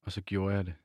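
measured novel reading with pauses between phrases; literary reading aloud. A narrator's reading. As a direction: read the passage aloud, unhurried.

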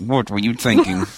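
flat mechanical judging voice; robot voice. Pretend. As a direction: say it like a cold robot. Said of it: "It's my robot voice".

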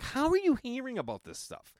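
amazed questioning. Retold or imitated. Retold amazement at friend's inside knowledge.

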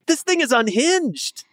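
high, slow, stretched disbelief; drawn out in amazement; incredulous. Real, not acted. Reacting to the bot's replies.

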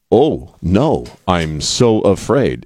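snotty mock fear. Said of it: "the snot in the voice".

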